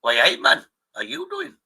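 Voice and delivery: put-on fumbling a Welsh accent on a friendly hello; bad Welsh accent. Greeting a mate while attempting a failed Welsh accent. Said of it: "Oh, I can't do a Welsh accent".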